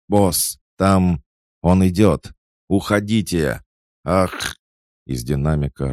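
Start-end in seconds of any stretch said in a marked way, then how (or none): 0.1-4.6 high, loud panicked cry; panicked warning. A narrator's reading. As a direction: warn the boss in terror over the radio. Terrified henchman warns over radio.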